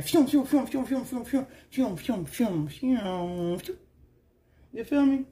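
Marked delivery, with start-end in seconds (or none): 0.0-2.0 quick whooshing phews. Retold or imitated. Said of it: "That's all I'm hearing". 2.0-3.8 slowed phews. Retold or imitated. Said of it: "That's all I'm hearing".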